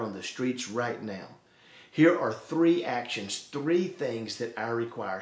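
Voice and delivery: measured, composed answer from God; calm. Acted. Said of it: "And God just calmly says".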